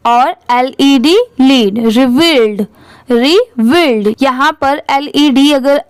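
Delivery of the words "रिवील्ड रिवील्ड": रिवील्ड slowly, री then वील्ड; pronunciation demo. Shown as a demonstration. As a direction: draw out both halves of रिवील्ड. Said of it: "यहाँ पर इसकी pronunciation है". (रिवील्ड को धीरे, तोड़कर बोलें)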